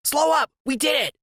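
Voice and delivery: high, triumphant voice; Freak's high voice. A narrator's reading. Sidekick telling his friend they escaped. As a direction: announce it high and pleased.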